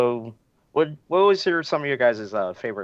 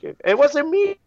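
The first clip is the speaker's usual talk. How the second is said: much higher and louder innocent denial; mock character denial; 6 dB louder, slower than usual. Podcaster quoting the twist line, high and loud mock denial. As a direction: squeal it like you're falsely accused. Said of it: "And then he's like".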